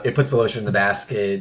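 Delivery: low creepy killer quote; lightly voiced low villain impression; Buffalo Bill. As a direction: drop the pitch for a movie villain. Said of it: "everything Buffalo Bill says in that movie".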